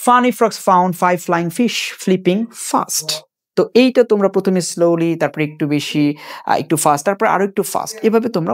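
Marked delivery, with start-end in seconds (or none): 0.1-3.1 very slow, every f-sound drawn out, "Funny frogs found five flying fish flipping fast"; very slow tongue twister. Shown as a demonstration. Teacher slowly demonstrating the tongue twister, very slow. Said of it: "আবার দেখো".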